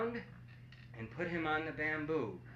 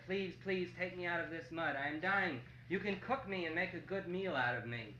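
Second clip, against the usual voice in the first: softer, higher begging voice; monkey pleading; 4 semitones higher, 5 dB quieter than usual. Acted. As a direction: beg softly as a trapped monkey. Trapped monkey begs the lion.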